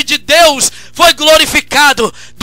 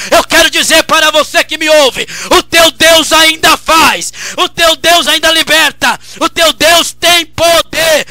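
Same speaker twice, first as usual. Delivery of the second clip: preaching at full force; 4 dB louder than usual. Acted. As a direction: hammer each line to the congregation. Preaching crescendo to congregation.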